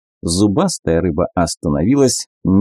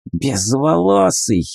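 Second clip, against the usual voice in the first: higher, slow squeaky animal; squeaky mongoose; 5 semitones higher, slower than usual. Acted. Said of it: "пропищал мангуст".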